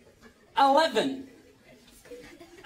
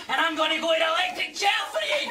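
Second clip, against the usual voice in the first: laughing shouted threat; 2 semitones higher than usual. Real, not acted. Threatening the lift.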